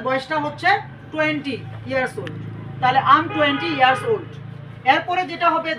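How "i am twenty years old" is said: slow dictation. Shown as a demonstration. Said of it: "teacher dictating a model sentence".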